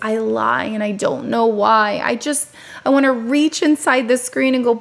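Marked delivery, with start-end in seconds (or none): 0.0-2.0 mock sheepish, ashamed, guilty, shame-filled tone. Quoting the child in a clip he just watched, imitating an ashamed voice. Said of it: "The shame in his voice when he goes".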